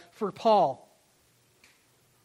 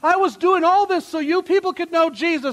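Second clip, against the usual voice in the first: whiny self-pity, pitched up and louder; playing the victim; 5 semitones higher, 5 dB louder than usual. Preacher mocking a self-pitying Paul, whiny and raised. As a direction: moan it like a martyr feeling sorry for himself. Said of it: "He didn't play victim".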